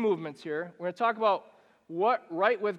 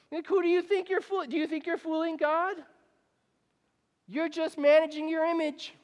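incredulous challenge; 9 semitones higher than usual. Real, not acted. Rhetorical challenge to listeners.

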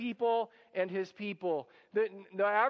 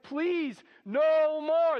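higher, mock-begging plea; pleading Egyptians; 6 semitones higher, 5 dB louder, much slower than usual. Egyptians pleading with Moses to stop, mock-desperate. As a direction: beg them to stop, lightly hammed-up.

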